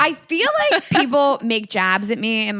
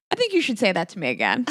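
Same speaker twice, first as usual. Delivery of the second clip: laughing challenge; 3 semitones lower, faster than usual. Shown as a demonstration. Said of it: "such a boss move to be like".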